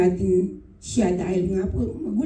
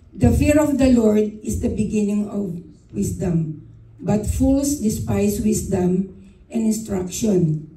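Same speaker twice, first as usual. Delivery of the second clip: slow, deliberate Bible verse reading; scripture reading; slower than usual. Acted. Reading Proverbs to the congregation, slow solemn scripture reading. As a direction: read the verse slowly, each word weighed.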